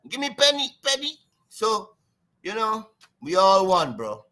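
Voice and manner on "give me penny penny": higher, light mock Chinese accent begging; a touch of imitated Chinese begging. Imitating a street beggar, a light mock Chinese accent. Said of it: "Chinese beg you in the road".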